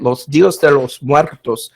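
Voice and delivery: attempted Spanish accent on the name. Shown as a demonstration. Host naming the Latin American celebration to the audience, in a Spanish accent. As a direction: put on your best Spanish accent. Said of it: "in my best Spanish accent".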